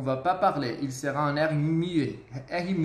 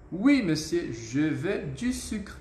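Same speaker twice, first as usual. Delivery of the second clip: polite tone model; slower than usual. Shown as a demonstration. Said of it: "a entonação".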